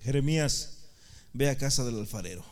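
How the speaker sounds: low, solemn command; calm, low divine order; voice of God. Acted. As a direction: instruct the prophet in a deep, measured voice. Acts God answering Jeremiah.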